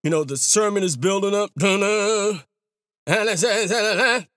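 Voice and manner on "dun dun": organ imitation. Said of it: "organ starts going".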